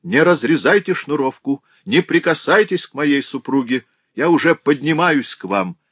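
high, loud imploring; husband begging the stranger to stop; frantic pleading. A narrator's reading. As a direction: beg him desperately. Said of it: "не помня себя".

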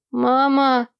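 put-on a boy's tearful shout; bawling boy. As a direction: wail for his mother. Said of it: "разревелся Эрни".

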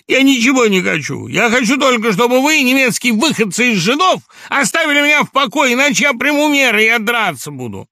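high, loud, wild; frenzied threat. A narrator's reading. Laevsky threatening the zoologist, high and loud. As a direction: lash out, beside himself.

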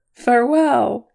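high, loud, lilting call; laughing farewell. A narrator's reading. Elf leaving to find the sun, merry farewell. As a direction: call a merry goodbye without actually laughing. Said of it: "he laughed".

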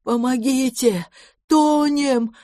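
зов на помощь, выше, медленно; звать на помощь с мостков; осипший крик ужаса. A narrator's reading. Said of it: "закричал осипшим от ужаса голосом". (сиплый крик о помощи, выше)

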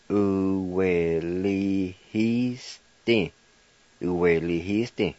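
Uwelihiste said whole and clearly; careful Cherokee word. Shown as a demonstration. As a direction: say Uwelihiste as one smooth word. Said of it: "and it's pronounced".

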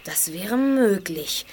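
slow hushed whisper. Acted. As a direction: breathe it slowly, barely voiced. Quiet remark at dusk.

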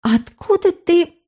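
put-on high, slow girlish voice; a girl's hesitant question, pitched high and slow; high girlish voice, drawn out; young girl. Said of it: "начала была девчонка".

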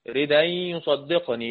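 slow recited "ردا يصدقني" with the hamza dropped; Quranic recitation. Shown as a demonstration. Teacher recites Nafi's reading of "ردا" slowly. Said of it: "لقينا إن نافع بيقرأ".

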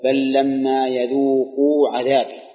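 slow, chanted Quranic recitation of يذوقوا. Acted. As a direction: recite the verse slowly and lean into يذوقوا. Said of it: "مثالها قوله تعالى". (تلاوة مرتلة بطيئة مع التركيز على يذوقوا)

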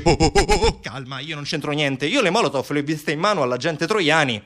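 mock-alarmed ohs, then hushed self-defence; defensive protest. Accused officer Di Bernardini shifts blame, defensive.

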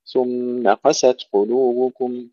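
slow ثم قست قلوبكم, ثم distinct from قست; measured recitation separating ثم and قست; words kept separate. Shown as a demonstration. Teacher modelling the verse for pupils, slow and separated words. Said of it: "يجب أن نفصل الكلمتين".

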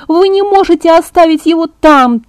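put-on a girl begging not to leave her father; desperate shout. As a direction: yell it, slowing on the last words. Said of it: "закричала я".

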